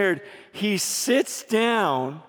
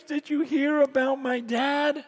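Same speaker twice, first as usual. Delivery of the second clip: higher voice of a distraught son, understated; imitated crying; 4 semitones higher than usual. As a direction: lightly imitate a crying son's question. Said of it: "he's crying".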